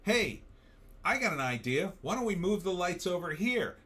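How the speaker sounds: mock crew pitch. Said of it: "you say to the gaffer".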